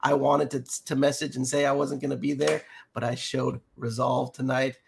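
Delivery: sick, scratchy voice; talking through a sore throat. Real, not acted. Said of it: "scratchy voice and all".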